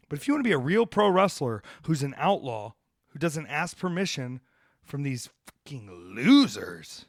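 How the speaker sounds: fired up. Real, not acted. Outlaw wrestler challenging would-be real pros, fired up. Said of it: "You see how fired up I am".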